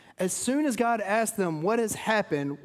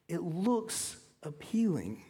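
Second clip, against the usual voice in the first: slow, soft and drawn out; hushed; 5 dB quieter, slower than usual. Acted. Preacher softly voicing sin's lure. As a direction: let it linger like a temptation. Sin looks tempting, hushed.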